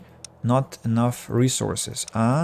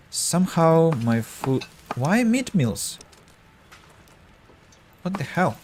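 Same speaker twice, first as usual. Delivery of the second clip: surprised; 7 semitones higher than usual. Real, not acted. Finds meat meals unexpectedly.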